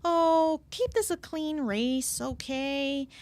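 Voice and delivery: lightly imitated game heroine; a hint of a mild-mannered character voice; Amy Rose. Imitating Amy talking to other racers, lightly voiced. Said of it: "she says things like".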